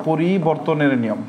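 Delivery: drawn-out, slow dictation pace; teacher slowing down so the class can write. Shown as a demonstration. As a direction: spell it out slowly for note-taking. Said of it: "নিয়ম আপনি আপনার মতো করে লিখে নেবেন".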